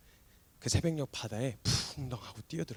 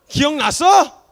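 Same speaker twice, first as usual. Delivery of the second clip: the taunt repeated, higher and louder; a mock jab, turned up; 14 semitones higher, 20 dB louder, much slower than usual. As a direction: push the question harder.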